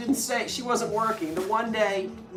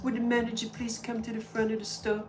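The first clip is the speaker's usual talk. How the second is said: mousy little voice; 4 semitones higher, 5 dB quieter than usual. Retold or imitated. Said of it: "to make her say it".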